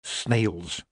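soft aside under the breath; whisper-ish warning to a friend; murmured. Acted. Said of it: "murmured under her breath".

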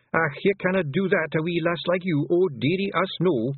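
mock-fussing refusal; imagined Feegle fuss.

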